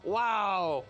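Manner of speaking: a voiced-over amazed wow and whoa; retelling Gawain's dazzled reaction to her choice, amazed; stunned wonder. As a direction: gape in wonder then ponder. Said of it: "he goes".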